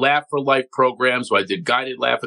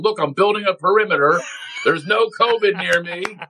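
mock proud self; 5 semitones higher than usual. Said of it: "walking around Vegas with a chicken bone".

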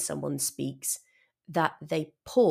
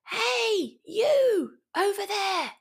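shouting; slower than usual. Shown as a demonstration. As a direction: shout it to someone far away. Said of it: "then I'm shouting".

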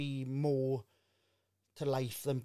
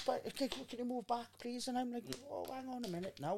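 high-pitched imitation of fussy shoppers; mock a fussy Tesco customer; 8 semitones higher than usual. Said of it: "and you go".

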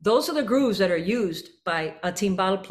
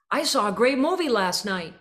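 said loud; 3 semitones higher than usual. Shown as a demonstration. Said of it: "and I said it loud".

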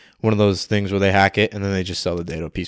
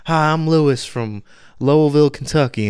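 mock ad voice; 6 semitones higher than usual. Mocking a local TV ad.

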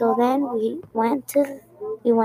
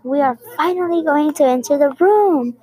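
higher and louder, a glad burst; excited exclamation; 4 semitones higher, 3 dB louder than usual. Retold or imitated. Girl telling her mom they can finally enter, excited exclaim. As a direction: exclaim it like the wait is finally over. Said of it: "As soon as I exclaimed".

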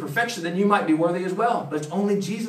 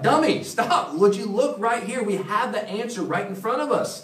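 higher, playful scolding; teasing friend; 4 semitones higher than usual. Retold or imitated. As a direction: nudge a friend who misses the obvious. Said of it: "It's just like".

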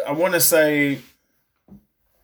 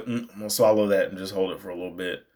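holding it in; 3 semitones lower, 5 dB quieter, much faster than usual. Acted. Voicing a held-back inner thought.

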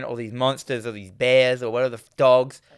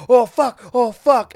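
mock panic; 9 semitones higher, 7 dB louder, slower than usual. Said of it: "he's like".

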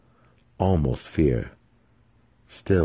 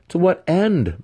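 teasing; 13 semitones higher, 5 dB louder, slower than usual. Acted. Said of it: "Massage teased".

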